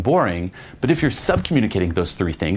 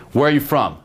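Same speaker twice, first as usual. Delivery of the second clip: bold and punchy; 6 semitones higher than usual. Shown as a demonstration. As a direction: fire it off with confidence. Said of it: "a lot more, ah, fucking powerful".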